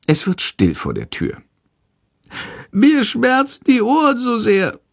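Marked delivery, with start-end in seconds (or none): 2.7-4.8 small, high bat whimper; meek whining. A narrator's reading. Sick bat's ears hurt, whimpering high and meek. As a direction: complain timidly in a squeaky voice. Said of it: "jammert die kranke Fledermaus ganz kleinlaut".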